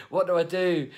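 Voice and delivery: high, loud helpless protest; exaggerated high-pitched appeal; mock helplessness. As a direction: plead it in a hammed-up high voice. Rehearses defiant reply to boss.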